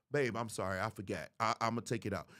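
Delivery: low, conciliatory reply; acted low-key apology; apologetic husband.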